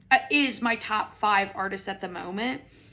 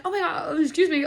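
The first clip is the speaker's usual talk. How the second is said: playing drunk; 7 semitones higher, 3 dB louder, faster than usual. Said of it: "I play drunk".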